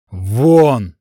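short bellowed get out; yelling out. Acted. Adrik drives the girl out, yelling. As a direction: bellow him out of the room. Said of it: "заорал Адрик".

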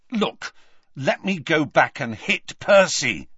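Ron speaking up loudly. A narrator's reading. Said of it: "Then he said loudly to Hermione".

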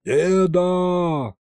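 put-on loud, high call of a boy; a whisper as loud as a shout; thundering call to grandpa; booming stage whisper. A narrator's reading. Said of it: "громогласно на всю округу прошептал я".

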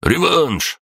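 high, excited bark; acted high-pitched outburst; barked demand. A narrator's reading. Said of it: "рявкнул оранжевый".

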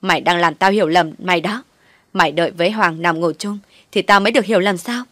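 mild angry yell. Acted. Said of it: "tát thêm mấy cái nữa hét lên".

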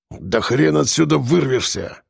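slow, angry growled retort; sour, menacing dismissal; spiteful, through teeth. Acted. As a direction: force it out bitterly through the teeth. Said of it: "процедил ворон зло".

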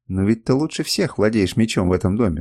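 plain reading voice

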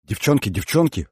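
mildly urgent appeal; appealing call. Acted. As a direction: call for the friends' attention. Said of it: "воззвала Маша".

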